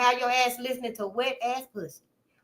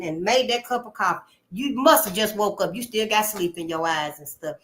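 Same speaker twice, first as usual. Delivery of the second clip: mock family nagging; 3 semitones higher than usual. Family voiced scolding sister.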